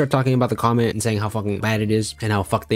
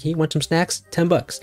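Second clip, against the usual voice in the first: higher, light mock hustler; mock general; 6 semitones higher than usual. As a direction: pitch the snacks cheekily. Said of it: "the general comes by and is like".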